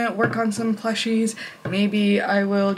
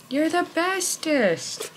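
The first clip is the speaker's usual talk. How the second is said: even higher, slower doting praise; pet praise; 9 semitones higher, much slower than usual. Real, not acted. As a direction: stretch it out higher for the cat. Praising the cat again.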